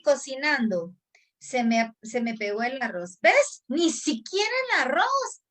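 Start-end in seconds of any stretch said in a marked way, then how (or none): 3.2-5.4 mocking inner critic. Inner critic mocking her over the stuck rice, shrill jeer. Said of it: "hay desaprobación en lo anterior".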